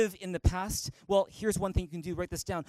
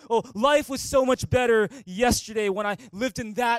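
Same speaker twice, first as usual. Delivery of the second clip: mock wistful sigh; 2 semitones higher, 5 dB louder than usual. Pastor parodies someone longing for yesterday, mock wistful. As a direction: sigh over the old days, hammed up. Mocking nostalgic complaints.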